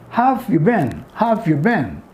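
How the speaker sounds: "have you been?" run together quickly; contracted form. Shown as a demonstration. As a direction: blend "have you been?" as one phrase. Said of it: "have in contraction".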